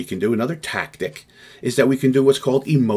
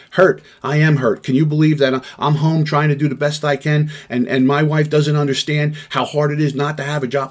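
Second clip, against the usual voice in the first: upset man venting; 5 semitones higher, 3 dB louder than usual. Acted. Upset person venting to negotiator.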